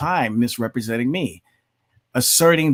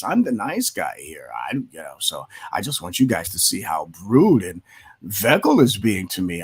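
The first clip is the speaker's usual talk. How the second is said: mock passive-aggressive; 5 semitones lower than usual. Mocking opponents who call Vegel the aggressor. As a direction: whine like the wounded party, lightly mocked. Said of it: "play the passive aggressive role".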